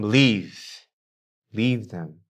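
lightly voiced devil coaxing him to quit; tempting Satan. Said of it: "Satan was whispering to him".

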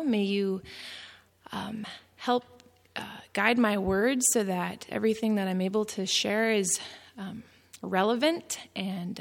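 hushed, reverent prayer; subdued, sincere praying voice. Real, not acted. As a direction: pray softly, with small searching pauses. Leads an opening prayer.

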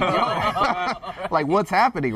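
high laughing yo, what's happening; laughing disbelief. Retold or imitated. Recalling being shut in the office, high nervous laughter.

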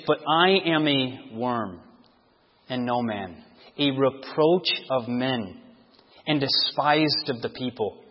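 slow, soft and low, worn down; a touch of despair; slow low lament. Acted. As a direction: sink into the words. Jesus's lament in psalm.

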